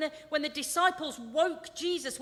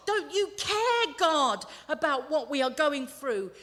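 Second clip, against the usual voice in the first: crying out to God; 6 dB louder than usual. Acted. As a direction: challenge God with raised voice. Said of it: "Faith cries out to God".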